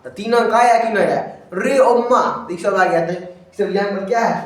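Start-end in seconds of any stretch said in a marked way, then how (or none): 1.5-2.2 village exclamation. Retold or imitated. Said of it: "ठेठी भाषा में कहता है".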